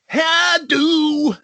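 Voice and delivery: high shouted how do; rock singer impression. Mimicking a rock singer's stage greeting, shouted high. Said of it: "the singer's like".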